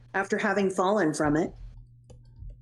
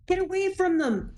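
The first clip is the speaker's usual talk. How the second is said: higher, urgent cry to back off; frantic shout; 9 semitones higher than usual. Acted. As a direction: yell at them to get away. Character yelling in a standoff.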